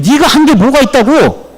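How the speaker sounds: high-pitched retold reproach; rebuking. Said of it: "책망받고 있습니다".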